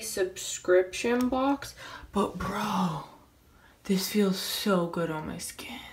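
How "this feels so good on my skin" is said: soft unvoiced whisper. Real, not acted. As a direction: breathe it out softly. Whispering during face mask.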